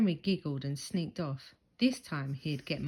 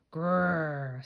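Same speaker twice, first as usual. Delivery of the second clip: dog snarl; 4 dB louder than usual. A narrator's reading. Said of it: "snarled the dog".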